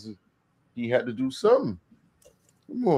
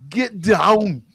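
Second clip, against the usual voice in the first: much higher and louder shouted order; mock shout; 9 semitones higher, 6 dB louder than usual. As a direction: yell it like a movie soldier. Shouting a movie line.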